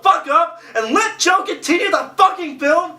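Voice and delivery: fed up, telling him off; annoyed. Real, not acted. Yelling at the film narrator.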